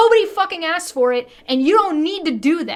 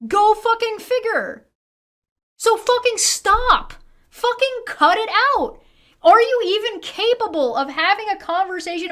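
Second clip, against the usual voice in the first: higher, exasperated snapping; angry; 5 semitones higher than usual. Real, not acted. Streamer ranting at Americans online, exasperated and angry. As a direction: tell them to stop, fed up.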